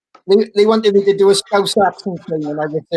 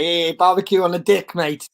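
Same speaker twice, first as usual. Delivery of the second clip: put-on half-hearted Australian accent; Aussie accent. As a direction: recall a mock Australian accent. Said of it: "we used to do the Aussie one".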